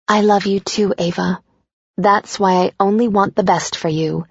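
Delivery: lightly voiced loving mom; a mother softening at goodbye; fond mother.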